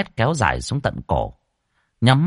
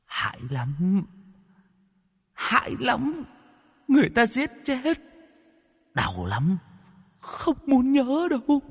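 frightened mumbling; 4 dB quieter than usual. Acted. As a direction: mutter in terror of the memory. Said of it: "mồm lẩm bẩm".

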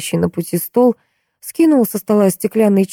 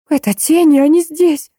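alarmed cry; 11 semitones higher than usual. A narrator's reading. Susan warns everyone that the shadows are here, high alarmed cry. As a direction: raise the alarm at the window. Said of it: "раздался крик Сусан".

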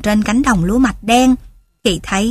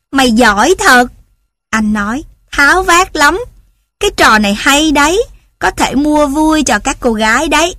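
high, bright amused voice, a bit faster; amused laughing praise; 4 semitones higher than usual. Acted. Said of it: "Ivan phá lên cười".

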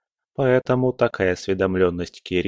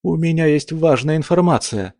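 nervous gulping; 8 semitones higher than usual. Acted. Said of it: "громко сглотнул Кирилл".

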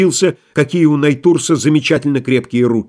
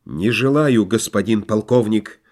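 dull wooden voice; 4 semitones lower, 3 dB quieter than usual. Acted. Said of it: "ответил он суконным голосом".

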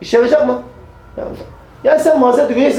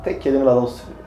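ordinary delivery

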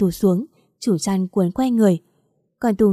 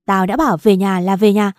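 stern order; 5 dB louder than usual. Acted. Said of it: "Anh ta nói".

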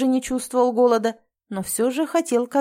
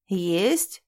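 surprised question; 3 semitones lower than usual. Acted. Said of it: "несказанно удивился Рицик".

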